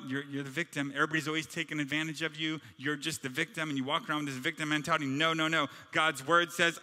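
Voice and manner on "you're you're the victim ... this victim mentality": mocking lie voice. The lie's mocking voice.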